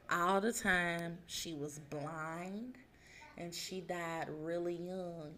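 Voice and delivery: slow and soft, reverent; solemn. Real, not acted. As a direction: tell it gently, like a sacred story. Solemn slow telling of saint.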